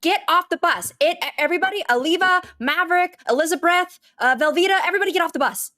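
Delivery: calling out orders. Acted. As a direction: call each kid by name, firmly. Penny calling the kids off bus.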